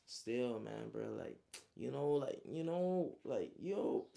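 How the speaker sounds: acted groping for words; speechless. Friend stunned that the enemy lives, mildly speechless. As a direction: stretch out the fillers as if lost for words. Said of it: "like, speechless".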